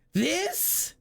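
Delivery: high, rising incredulous question; high-pitched disgusted disbelief; appalled disbelief. Real, not acted. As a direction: shoot the pitch up in scandalised query.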